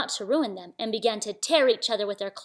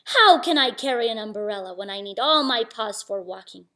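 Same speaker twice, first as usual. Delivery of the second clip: objecting tiger; 5 dB louder than usual. Acted.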